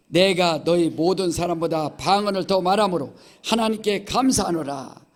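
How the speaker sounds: Chungcheong preacher leading a loud unison reading; loud group reading. Real, not acted. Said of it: "다 같이 시작".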